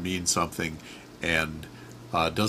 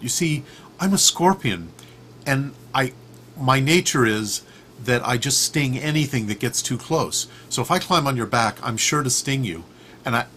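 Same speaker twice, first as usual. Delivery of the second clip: higher, louder reluctant scorpion; lightly voiced apologetic scorpion; 6 semitones higher, 4 dB louder than usual. Scorpion warning the frog about his nature, reluctantly. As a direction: turn down the offer as an apologetic scorpion.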